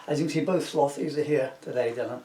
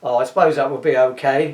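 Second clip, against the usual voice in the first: pitying; 8 dB louder than usual. A narrator's reading. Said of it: "says Max in pity".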